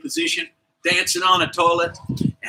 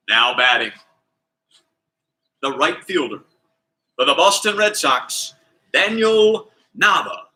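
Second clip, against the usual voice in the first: stadium announcer; 3 semitones lower than usual. Retold or imitated. Stadium announcer introduces batter.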